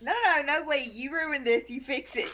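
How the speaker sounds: a mock telling-off; mock stern scolding. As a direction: scold him playfully. Player scolds companion in play.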